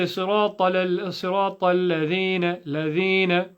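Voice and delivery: "ladhina" hurried with a slack middle vowel; quick "ladhina" as "ladhena"; common slip. Retold or imitated. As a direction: imitate a careless "صراط الذين", vowels short and loose. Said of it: "Some people say".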